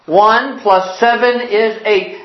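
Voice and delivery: slow, measured drill; teacher drilling. Acted. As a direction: lead the pupil through it word by word. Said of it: "say it with me".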